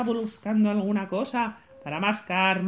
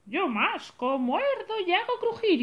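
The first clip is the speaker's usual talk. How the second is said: high, playful monster roar; 8 semitones higher than usual. Acted. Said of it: "así que rugió". (rugido de monstruo)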